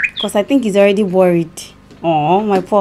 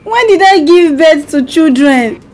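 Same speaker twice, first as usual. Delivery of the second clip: baffled, pleading to heaven; shocked, as if never married; amnesiac confusion; 3 semitones higher than usual. Pretend. Wife fakes amnesia prank call.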